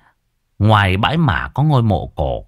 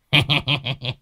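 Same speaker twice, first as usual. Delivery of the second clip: shrill cackle; 4 semitones higher, 5 dB quieter than usual. A narrator's reading. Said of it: "cười choe choé".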